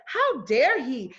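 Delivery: slow, indignant outburst on the listeners' behalf; annoyed, irritated. Retold or imitated. Voicing the audience's reaction to the officer, annoyed and indignant. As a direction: voice their irritation, drawing it out. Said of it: "you hear how annoyed and how irritated you feel".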